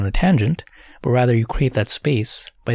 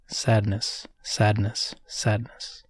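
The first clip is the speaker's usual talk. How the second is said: soft inward repetition, fading towards a whisper; said to oneself; 7 dB quieter, much slower than usual. Shown as a demonstration. Meditation guide showing how to label sadness inwardly, said to oneself. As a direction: murmur each one privately, letting the last nearly vanish. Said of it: "you would say to yourself".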